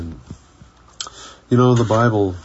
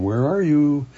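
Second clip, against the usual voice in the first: "are" lifted high and longing; higher "Where ARE you?" with are leaning; stress on ARE; 6 semitones higher than usual. Shown as a demonstration. Preacher repeating the question with searching emphasis on "are". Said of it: "a different emphasis".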